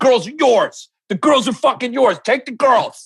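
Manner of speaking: aggressive insistence. Retelling what the speaker said back then, mock-aggressive. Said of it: "my energy was aggressive".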